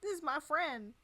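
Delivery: lightly voiced wholesome gee-whiz friend; overly sweet goody-goody voice. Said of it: "Cindy's like".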